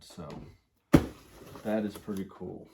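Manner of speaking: slightly winded, talking through breath. Real, not acted. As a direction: say it a bit short of breath. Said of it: "I'm getting out of breath".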